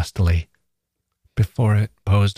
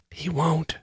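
soft, much higher whisper; 9 semitones higher, 7 dB quieter than usual. A narrator's reading. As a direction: drop it to a hush. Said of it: "whispered Adam".

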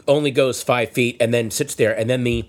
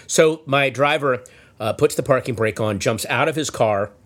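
ordinary talk, nothing marked

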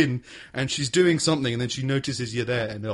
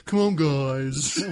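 easygoing dog; much slower than usual. Acted.

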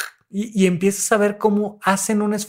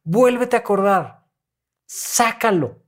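urging therapist; 4 semitones higher than usual. Retold or imitated. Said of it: "y les digo".

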